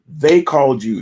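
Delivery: ordinary delivery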